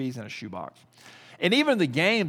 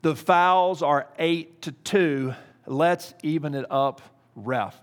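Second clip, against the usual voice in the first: elevated voice; 4 dB louder, slower than usual. Retold or imitated. Dad calls out to the struggling referee, slow and raised. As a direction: call out to the ref, firmly but not yelling. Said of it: "I just with elevated voice say".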